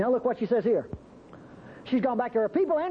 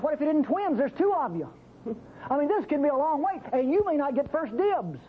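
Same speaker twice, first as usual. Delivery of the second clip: Naomi voiced; 5 semitones higher than usual. Preacher voices Naomi pleading.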